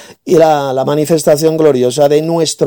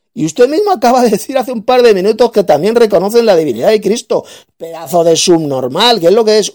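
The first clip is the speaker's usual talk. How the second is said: raised, higher-pitched tirade; angry rant; 5 semitones higher than usual. Real, not acted. Debater berating his opponent as a fool, angry and raised. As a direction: lash out at the opponent.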